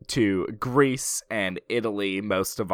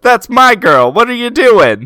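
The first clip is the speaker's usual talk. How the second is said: very loud, high-pitched hammed-up protest; mock indignant shout; 11 semitones higher, 13 dB louder than usual. Sam sees his date taken at the dance, mock indignant shout. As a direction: yell it like an affronted boyfriend.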